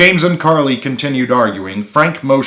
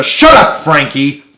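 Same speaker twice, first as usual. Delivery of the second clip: high, loud snap; shout; 4 semitones higher, 7 dB louder than usual. A narrator's reading. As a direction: bark him into silence. Carly snaps at Frank.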